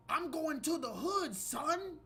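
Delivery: high, mocking gangster slang; mock street slang. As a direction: parody the lesson's tough-kid talk. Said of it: "This is what Asian people believe".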